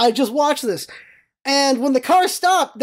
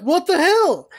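higher, incredulous mild yell; mock outraged holler, held back; retold yell; 7 semitones higher, slower than usual. Bystander to pedestrians in parking lot, mock yell. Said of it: "Like, I yelled".

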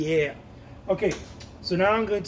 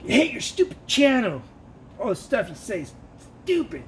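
mock hater; 5 semitones higher than usual. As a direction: spit it out like a rude stranger. Hater quote again.

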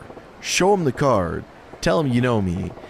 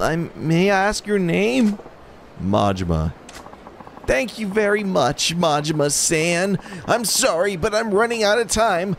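much higher, whimpering nervous guy; whiny lovesick man; 9 semitones higher than usual. Acted. Fool despairing to Majima about his problem. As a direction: play the pathetic lovestruck fool.

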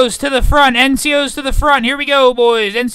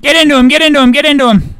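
shouting; 3 semitones higher, 5 dB louder than usual. Real, not acted. Urging men in melee.

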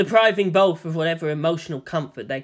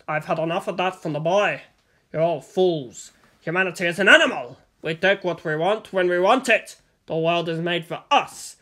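lightly voiced contemptuous villain; ranting kidnapper. Kidnapper lecturing his captive on power, contemptuous. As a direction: spit out a scornful rant.

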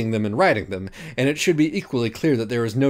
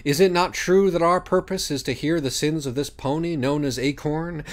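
lightly voiced solemn judge reciting; pompous judge Minos; 4 semitones higher than usual. Minos opening the trial, lofty and formal.

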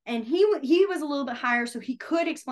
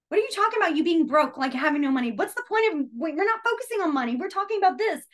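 baffled teacher; 6 semitones higher than usual. Retold or imitated. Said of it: "And I'm like".

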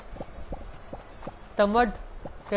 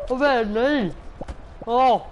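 loud dismay; 4 semitones higher, 4 dB louder, much faster than usual. Real, not acted. Reacts to game event.

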